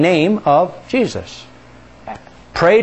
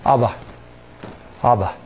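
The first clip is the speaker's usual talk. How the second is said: softer, lower, tender Abba; hushed, close Abba; intimate; 6 semitones lower, 7 dB quieter than usual. Shown as a demonstration. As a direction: say Abba like a child calling its daddy. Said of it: "very intimate way to talk to your father".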